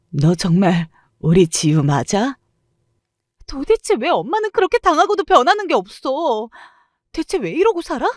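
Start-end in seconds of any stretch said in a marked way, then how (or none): 3.4-8.1 shrill-free but much higher, furious questioning; angry high outburst. A narrator's reading. Daughter confronting her mother, angry raised voice. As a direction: lash out at your mother in disbelief.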